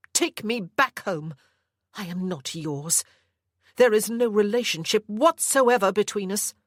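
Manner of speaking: a hint of a firm young mother; Anna, defiant. Anna answers her captor.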